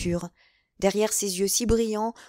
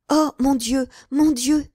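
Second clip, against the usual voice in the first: high, louder frightened cry; alarmed; 6 semitones higher, 6 dB louder, slower than usual. A narrator's reading. Young wife frightened by the cardinal's messenger, alarmed. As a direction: dread of bad news. Fearing bad news.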